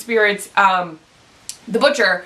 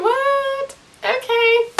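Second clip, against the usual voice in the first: much higher, disbelieving squeak; squeaky high "What? Okay." of pure disbelief; incredulous; much slower than usual. Real, not acted. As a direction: react in stunned disbelief. Speaker reacts to lost child.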